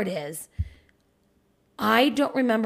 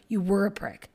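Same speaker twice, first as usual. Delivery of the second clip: usual speaking voice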